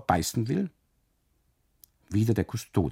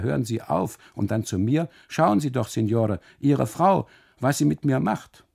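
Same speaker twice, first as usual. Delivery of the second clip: pained pleading; 5 semitones higher, 5 dB louder than usual. Acted. Custodian begging for help.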